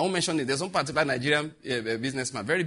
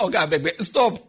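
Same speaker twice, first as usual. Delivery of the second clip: begging wife; 5 dB louder than usual. Retold or imitated. Wife begging him to stop.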